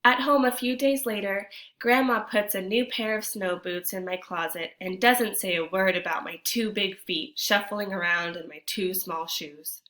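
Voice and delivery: storytime reading voice, a touch lively; story narration. A narrator's reading. Teacher reads the picture book to kids, lively narration. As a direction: read the tale to the class.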